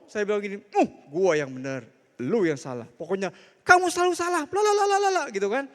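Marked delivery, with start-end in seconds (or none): 0.7-5.2 mock stubborn husband. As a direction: play the husband who insists he's right. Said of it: "strong banget ya".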